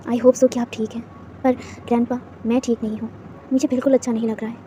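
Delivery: quietly confiding at the grave; tender with a smile. Acted. Grandson speaks at grandpa's grave, soft and tender. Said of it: "एक प्यारी सी smile करते हुए कहता".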